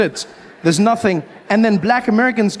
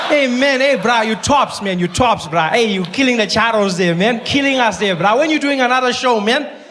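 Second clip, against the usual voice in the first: South African fan; 3 semitones higher than usual. Retold or imitated. Fan greeting Trevor in South African slang.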